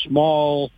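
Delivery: small set apart by pauses; stress on small. Real, not acted. Caller stressing his small hauling business, emphatic on small. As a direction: lean on the word small. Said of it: "emphasize the word small".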